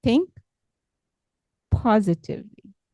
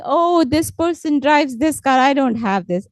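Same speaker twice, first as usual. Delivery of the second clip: higher-pitched mock envious grumble; mild complaining; 5 semitones higher than usual. Speaker imitating someone who envies another's car, mildly complaining. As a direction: lightly act out someone complaining. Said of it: "We should not always complain".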